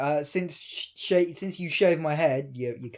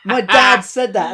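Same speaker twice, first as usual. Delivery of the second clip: laughing; 8 dB louder, slower than usual. Real, not acted. Laughing recounting dad's joke.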